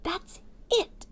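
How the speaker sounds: high, pleased agreement; mayor agreeing happily; delighted mayor. Acted. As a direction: seize on the idea. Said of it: "said the mayor, nodding his head".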